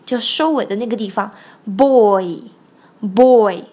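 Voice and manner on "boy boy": put-on BOY with the ee glide finished at the end; clear diphthong. Shown as a demonstration. Teacher shows learners the ending vowel, clear diphthong. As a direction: land the final ee in BOY. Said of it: "一定不要忘了后面有个一在这里".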